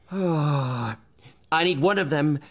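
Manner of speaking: loud, high shocked cry; loud, high, stunned outburst; outraged disbelief. Acted. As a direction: explode in disbelief. Howl shocked books were sold.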